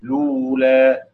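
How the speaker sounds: very slow لولا starting straight on the lam; dropping the hamza. Shown as a demonstration. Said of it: "بحذف همزة الوصل".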